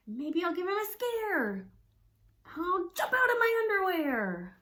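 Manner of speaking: loud, high, playful threat; mock threat. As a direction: puff up to scare the bear. Mouse threatening a scare.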